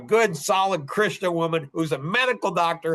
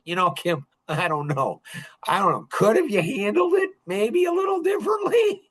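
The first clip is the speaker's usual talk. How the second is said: ending much higher, questioning; gentle hesitant hint; 4 semitones higher than usual. Retold or imitated. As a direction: tiptoe the criticism. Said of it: "Just like that, verbatim".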